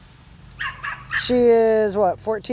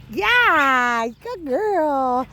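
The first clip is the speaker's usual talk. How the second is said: higher, cheerful praise; happy fun voice; 5 semitones higher, much slower than usual. Shown as a demonstration. Trainer praising puppy for coming back, happy fun voice. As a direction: reward her with a bright happy tone. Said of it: "Always make it a happy, fun voice".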